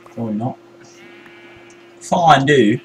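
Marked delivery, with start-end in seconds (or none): 2.0-2.8 "Fondue" higher, pronounced FINE-doo. Shown as a demonstration. Gamer trying to pronounce fondue, saying it "fine-doo". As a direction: say "Fondue" with a first syllable like "fine". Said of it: "in a Swedish accent".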